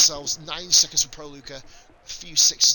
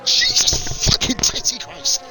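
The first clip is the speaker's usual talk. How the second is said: slow, much higher, louder oath; watching a wild overtake, stunned swearing; stunned exclamation; 9 semitones higher, 5 dB louder, much slower than usual. Real, not acted. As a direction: drag out the disbelief. Reacting to the overtake.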